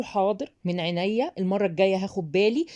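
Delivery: soothing, even-toned compliance; placating. Shown as a demonstration. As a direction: agree calmly to defuse the criticism. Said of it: "الكلام اللي بيهدي ده".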